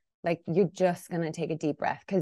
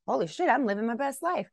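higher, exclaiming with joy; mock-amazed delight; 5 semitones higher than usual. Realizing little moments compound big, higher-pitched delight. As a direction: marvel at your own good fortune.

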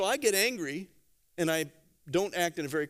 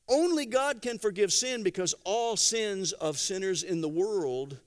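ordinary delivery

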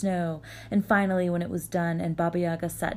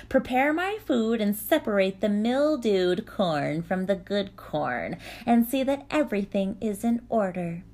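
stern witch voice. Acted. Baba Yaga giving orders.

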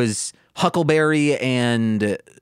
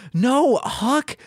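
higher, slow mock scolding; 9 semitones higher, much slower than usual. Scolding Huck.

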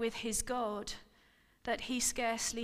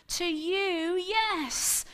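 high, louder bitter exclamation; exclaiming; 7 semitones higher, 6 dB louder, much slower than usual. Acted. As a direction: throw it back at him. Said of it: "she exclaimed".

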